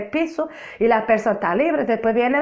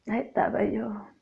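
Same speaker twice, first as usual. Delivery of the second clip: "Ahí estaba yo" said again much softer, almost to herself; 1 a soft, hushed repeat; 9 dB quieter than usual. Shown as a demonstration. Repeating her testimony to the brethren, now hushed and soft. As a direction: let "Ahí estaba yo" fall away to a near hush.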